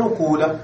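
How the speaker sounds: قول with a long oo, qūla; damma kept. Shown as a demonstration. Teacher repeating the variant, قول with long oo. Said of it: "الضمة كما هي ولكن لا تكسر".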